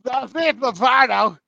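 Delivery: "Dave Lombardo" drawn out high and loud; slow, loud hammed-up "Dave Lombardo"; emphatic correction. Corrects the name with mock emphasis.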